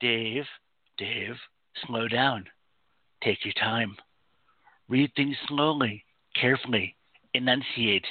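put-on sci-fi spaceship computer voice. A radio host tells himself, Dave, to slow down: HAL computer voice. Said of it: "using the voice from the guy from the computer in 2001".

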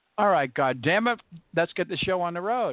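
mock loud outburst. Speaker recalls a doorman at church, retelling a very loud voice. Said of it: "you hear this very loud voice".

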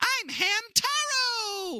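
squeaky cartoon voice. Describing how a game's characters sounded, using a super high-pitched Hamtaro voice. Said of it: "they all had super high-pitched voices like this".

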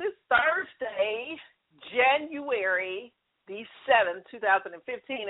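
carefully spaced-out words, very slow and deliberate. Announcing today's date to the audience: said really slow. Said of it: "I have to say that really slow".

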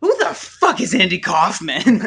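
put-on very drunk, loud, slow holler. Retelling an uncle approaching a man at a bar, imitating drunk Vince. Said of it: "My uncle's like super drunk".

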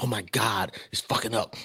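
put-on frustrated outburst. Retelling an old reaction to things going wrong: imitating own past frustration. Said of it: "It just used to bother me".

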